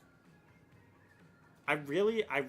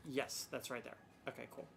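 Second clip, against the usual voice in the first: tired zombie drone, softer; 8 dB quieter than usual. Real, not acted. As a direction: sound like a worn-out zombie. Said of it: "Don't mind me sounding like a tired zombie".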